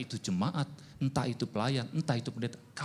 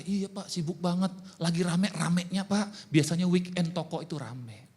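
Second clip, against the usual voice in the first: higher-pitched, eager excuse; higher, insistent mock excuse; busy churchgoer's excuse; 6 semitones higher, 3 dB louder than usual. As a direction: plead how busy it is, pitched up.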